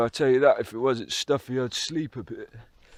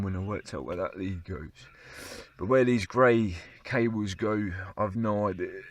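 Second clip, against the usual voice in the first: running out of air; 3 semitones lower than usual. Real, not acted. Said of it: "I'm running out of breath".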